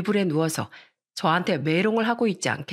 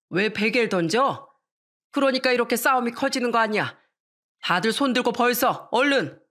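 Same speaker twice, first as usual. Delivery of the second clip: higher, firm scolding father; stern father scolding; 3 semitones higher than usual. Acted. Strict father scolding his two children, higher and stern. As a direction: lecture both kids and order punishment.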